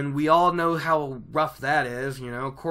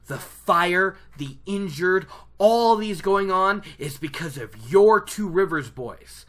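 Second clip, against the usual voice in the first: riled up; 4 semitones higher, 5 dB louder than usual. Retold or imitated. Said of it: "riles Lan up".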